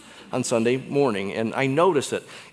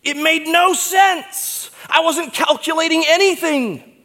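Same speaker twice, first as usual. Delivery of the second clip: imagined Peter; 6 dB louder than usual. Pretend. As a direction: plead his confusion. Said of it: "Peter would say something like".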